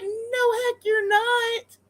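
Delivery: very high, drawn-out protest; mock-horrified high-pitched scolding; retold indignant refusal. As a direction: squeal the objection, stretching each word. Retold objection to nephew's plan.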